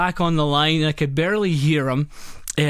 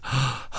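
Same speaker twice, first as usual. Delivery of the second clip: soft gasp; 3 semitones lower, 7 dB quieter than usual. Retold or imitated. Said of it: "calming down".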